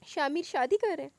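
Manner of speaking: mock-tearful disbelief; crying. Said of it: "वो रोते हुए बोली". (रोते हुए पूछना)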